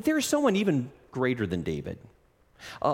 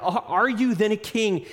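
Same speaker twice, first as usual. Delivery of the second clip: bewildered question; 8 semitones higher, 3 dB louder than usual. Retold or imitated. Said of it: "he still can't wrap his brain around it".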